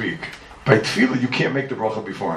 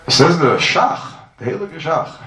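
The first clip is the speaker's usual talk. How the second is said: loud and slow, drawn out like a proclamation; dramatic announcement; 4 semitones higher, 8 dB louder, slower than usual. Real, not acted. Rabbi to his class, unveiling the Shach's answer, loud slow proclamation.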